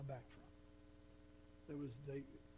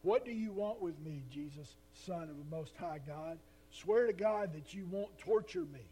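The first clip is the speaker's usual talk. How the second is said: the possessed man shouting at Jesus, frantic and loud; shouting demoniac; 2 semitones higher, 8 dB louder than usual. A narrator's reading. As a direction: cry out at the top of your voice, pleading. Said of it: "He shouted at the top of his voice".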